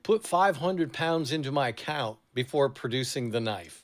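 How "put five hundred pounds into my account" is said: put-on light English accent on the robber's line. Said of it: "let me do a little English accent here".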